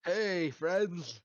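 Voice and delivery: mock Mario greeting. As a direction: toss it out like Mario waving. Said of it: "Imagine if Mario said that".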